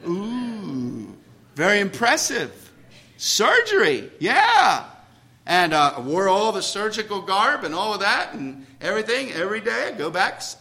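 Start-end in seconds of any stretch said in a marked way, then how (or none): 0.1-4.8 playful show of awe, rising in pitch; mock-impressed. Preacher boasting to congregation about surgery department job, mock-impressed. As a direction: ham up how impressive it is.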